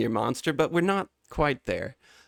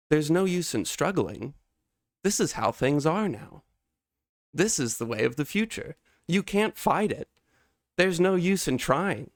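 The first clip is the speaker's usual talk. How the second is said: smug man in a suit; 5 semitones higher than usual. Acted. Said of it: "he's like".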